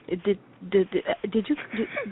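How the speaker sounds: mock stammer repeating did; lightly imitated nervous stutter. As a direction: stumble on the first word over and over. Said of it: "he starts stuttering".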